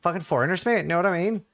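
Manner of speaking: imitated driver's grumble to a passenger; retold taxi driver. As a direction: play a griping cabbie, lightly. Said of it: "and he's like".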